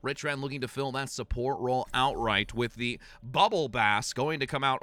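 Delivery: measured, flowing match commentary; esports play-by-play. Acted. Caster introducing next map to viewers, play-by-play. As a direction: call the line-up like a caster.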